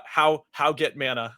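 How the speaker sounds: slow, clumsy broken-English question; dim-witted mock gamer asking for mana; broken caveman typing voice. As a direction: sound like you can barely form words. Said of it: "I wasn't even that eloquent".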